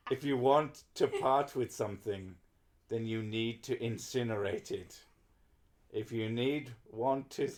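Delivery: measured storyteller with a mock German accent; story reading. Streamer finishing the translated lyrics, understated story reading. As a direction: read it evenly, like the close of a tale. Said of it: "needs to be read as a story".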